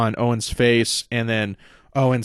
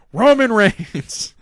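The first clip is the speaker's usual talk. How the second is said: much higher, slow, louder drawn-out name; drawn-out joint answer; 11 semitones higher, 4 dB louder, much slower than usual. Retold or imitated. Both wrestlers answering together, slow and drawn out. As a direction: stretch it out in unison. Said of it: "they're both".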